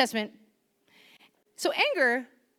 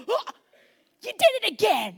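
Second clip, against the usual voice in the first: mock disappointed God; 9 semitones higher, 5 dB louder than usual. Imagined God scolding the listener.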